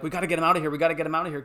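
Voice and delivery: mild mock urgency, retold; urgent retold call. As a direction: push it with some volume, as if rushing through a crowd. Guys urging to move Harry out.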